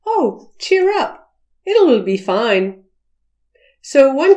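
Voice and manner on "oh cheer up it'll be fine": high, slow and soothing; gentle indirect. Shown as a demonstration. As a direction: coax them kindly instead of scolding. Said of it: "in a high context manner".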